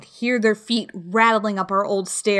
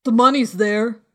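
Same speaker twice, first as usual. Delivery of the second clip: calling down; 4 dB louder than usual. A narrator's reading. Man calls down from window.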